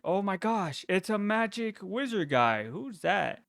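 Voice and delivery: mock starstruck teen; excited Peter. Peter gawking at Doctor Strange, excitedly amazed. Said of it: "Peter's like".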